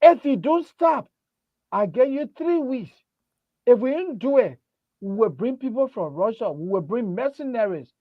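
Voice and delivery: menacing mock threat over the phone, with a laugh breaking through. Caller threatening the host over cursing the president, hammed-up menace. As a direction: lean on the threat like a hammed-up heavy.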